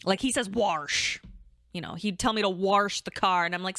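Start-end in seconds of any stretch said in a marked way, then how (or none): 0.5-1.2 put-on "Warsh" in a thick Southern accent; Southern drawl on "Warsh". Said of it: "very thick Southern accent".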